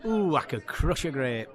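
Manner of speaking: drawn-out catchphrase with a long "Ooh"; comic's signature line, performed on request. Shown as a demonstration. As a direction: slowly play up a comic catchphrase. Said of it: "you're famous for this catchphrase".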